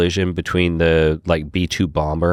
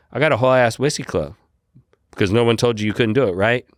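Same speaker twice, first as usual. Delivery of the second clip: retold excited boast; 6 semitones higher, faster than usual. Retold brag to new friend.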